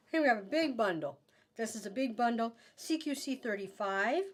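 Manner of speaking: talking around a cough drop; words round a crunching cough drop; chewing while talking. Real, not acted. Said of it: "Sorry, I'm chewing up my cough drop".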